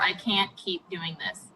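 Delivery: soft, slow, unvoiced whisper; quoted whisper. Host quotes the doctor's testimony in a hushed whisper. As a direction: breathe the quote out quietly. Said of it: "your exact words during your testimony were".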